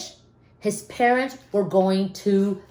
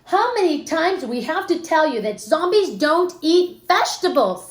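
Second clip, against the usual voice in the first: exasperated dad; 6 semitones higher than usual. Acted. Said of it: "said the dad".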